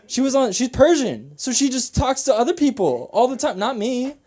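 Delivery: high, loud comic indignation; worked-up, self-mocking complaint; exasperated rant. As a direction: protest your bad luck, voice pushed way up. Comic rant comparing himself to brother.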